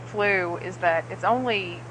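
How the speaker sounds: ordinary talk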